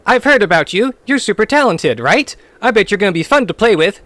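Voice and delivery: character voice. Acted. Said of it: "I like your character voice".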